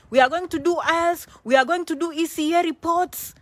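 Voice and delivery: loud, high pep-talk list; excited rallying. Real, not acted. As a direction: pump up the viewers step by step.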